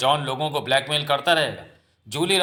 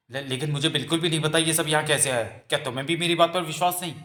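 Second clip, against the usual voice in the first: stammered, rising plea of innocence; distressed protest; 2 semitones higher than usual. Acted. Accused girl appealing to her lover for trust, distressed protest. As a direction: plead to be believed, voice lifting.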